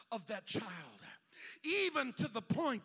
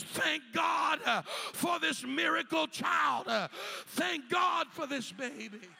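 half-shouted thanks, louder and higher; grateful cry; 3 semitones higher, 3 dB louder than usual. Retold or imitated. Mother holding her miracle baby, calling out thanks loudly.

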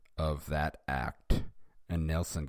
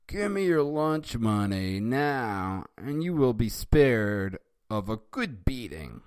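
lightly voiced bully; 4 semitones higher, 4 dB louder than usual. Nelson demands lunch money.

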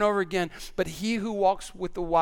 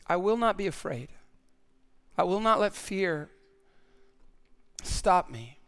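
slow recitation with the congregation; 4 dB quieter than usual. Shown as a demonstration. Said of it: "Would you say that with me?".

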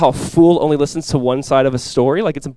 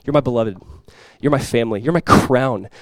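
tone of love; 5 semitones lower, 4 dB quieter than usual. Retold or imitated. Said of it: "How is Paul talking".

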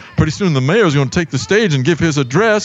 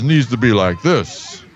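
character voice; 2 semitones lower than usual. Shown as a demonstration. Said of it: "And my voice is".

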